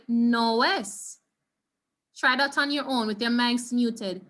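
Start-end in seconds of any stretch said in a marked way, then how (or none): 0.1-1.2 "no es" run together with no break between o and e; linked no es. Shown as a demonstration. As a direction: glide "no" straight into "es". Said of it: "you say".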